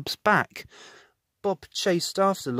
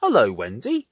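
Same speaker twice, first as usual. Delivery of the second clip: calling out; 3 semitones lower, 6 dB louder than usual. Acted. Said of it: "called Bob".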